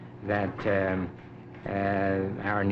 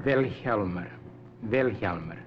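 Wilhelmer modelled with the accent on Wil; stress on first syllable. Shown as a demonstration. Explorer corrects interviewer's attempt, Wilhelmer stressed on its first syllable. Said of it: "The accent's on the first syllable".

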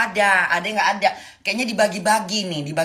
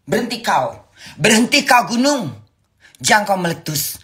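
mock sorcerer command; 4 semitones higher than usual. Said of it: "dengan ilmu gue".

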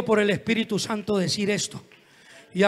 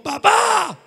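high, loud cry of Papá; raised voice at father; 10 semitones higher, 7 dB louder than usual. Retold or imitated. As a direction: act a daughter shouting at her father. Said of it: "un hijo le alce la voz". (hija alzándole la voz al papá)

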